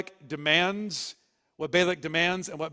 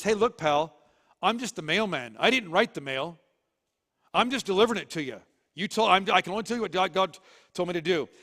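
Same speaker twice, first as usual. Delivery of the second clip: raised, fast, pushy comeback; exasperated retort; 2 semitones higher, 3 dB louder than usual. Acted. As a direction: set him straight, a little louder. Balaam answers angry Balak.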